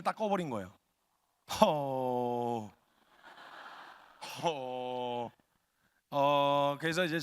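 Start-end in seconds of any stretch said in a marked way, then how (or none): 1.6-5.3 long, low "huh" of disbelief; stunned exhale. Acted. Little brother facing a dead monitor, stunned huff. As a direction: let out a drawn-out low huff.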